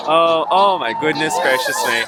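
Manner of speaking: loud, startled relief-seeking outburst; shocked exclamation. Real, not acted. Spectator after the climber drops, loudly shocked.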